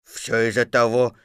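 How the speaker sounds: understated bear grumble; cross. Acted. Stuck Pooh blaming the exit, mildly cross. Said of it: "сердито сказал Пух".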